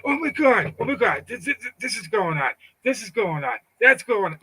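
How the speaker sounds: high, frantic mock panic, repeating himself. Mocking a panicked person, frantic. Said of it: "But you don't see me going".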